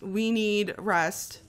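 We need rest stretched slowly, each word dragged out; slow, drawn-out. Shown as a demonstration. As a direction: drag it out slowly like you're worn out.

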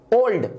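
ओल्ड in a single flow; one-syllable demo. Shown as a demonstration. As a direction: say ओल्ड as one unbroken sound. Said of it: "एक flow में निकला".

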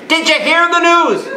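put-on high, loud, slow old-lady call. An old woman at a wake booming gossip to the priest. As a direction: belt it like a hard-of-hearing old woman. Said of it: "you speak louder".

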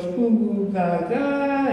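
imitated baby cooing; baby babble. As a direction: play at being a babbling baby. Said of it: "be a little baby".

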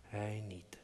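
a voiceless whisper repeating "Hij niet"; whispered echo. A narrator's reading. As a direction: breathe "Hij niet" as a soft afterthought. Echoed whisper of previous line. (fluisterend "Hij niet")

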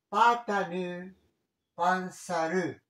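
slow "patanu, panzaru", each stressed on the last vowel; final-syllable stress. Shown as a demonstration. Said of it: "si ha finito par vocal". ("patanu, panzaru" lentos, con acento en la última vocal)

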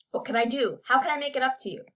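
wheedle, lifting the pitch as you insist; wheedling. A narrator's reading. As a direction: press him eagerly to name something. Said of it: "wheedled Jeremy".

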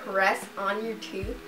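talking with finger on teeth. Real, not acted. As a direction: fingertip touching front teeth. Seen 0: Fingertip pressed to front teeth while talking, also briefly around 1.2–2.2.

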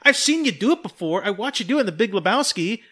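high, loud incredulous plea; exasperated disbelief. Retold or imitated. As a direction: viewer pleads with a stone-faced actor, exasperated. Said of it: "I was like".

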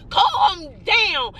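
"Calm down" with each word drawn long and emphatic; long, insistent stress on both words of "Calm down". Shown as a demonstration. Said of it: "It's a different type of calm down".

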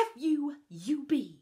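softened censored retake, whispering the end; mild hushed retake; censored quote. Retold or imitated.

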